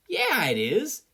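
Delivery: a loud, high cheer. Acted. Sero cheering along with the class, loud and high. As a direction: cheer it out, fired up. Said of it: "Sero cheered".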